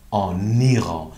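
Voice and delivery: "آن ایران" with the n sounded in full and linked on; n fully sounded. Shown as a demonstration. ("آن ایران" با ن کاملاً خوانده شده)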